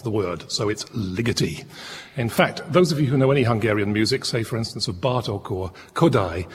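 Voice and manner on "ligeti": Ligeti stressed firmly at the front, LI-geti; stress on first syllable. Shown as a demonstration. Presenter settles how to say the name, Ligeti stressed on the first syllable. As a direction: land on "Li" in Ligeti, then let it fall away. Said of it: "the accent always falls emphatically on the first syllable".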